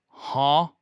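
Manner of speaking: short, loud questioning "huh"; blurted, puzzled meme-cat "huh?"; confused cat meme. Retold or imitated. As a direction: imitate a meowing cat asking a question. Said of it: "like it's asking a question".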